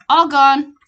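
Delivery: put-on toddler voice. Toddler showing missing teeth.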